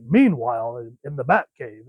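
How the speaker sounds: lightly voiced sixties TV narrator; a hint of campy announcer, punching the first word; Batman announcer. Dad announces his kid's toys, mild sixties Batman announcer voice. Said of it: "sixty-six Batman announcer voice".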